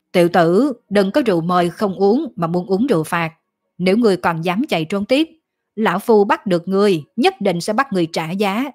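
lightly voiced demon threat; menacing old demon. Demon threatens the fleeing youth.

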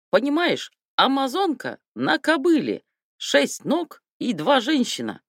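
put-on high, lively Armenian-accented anecdote. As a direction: joke told in a hammed-up Armenian accent. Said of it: "Армянский".

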